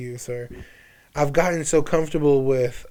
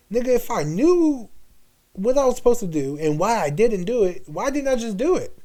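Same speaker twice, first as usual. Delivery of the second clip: retold self-questioning; 8 semitones higher than usual. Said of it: "I'm like".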